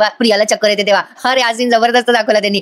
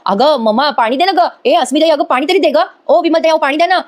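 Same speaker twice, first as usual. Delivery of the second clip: mock frantic calls; 5 semitones higher than usual. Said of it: "Ashwin लगेच hyper होतो".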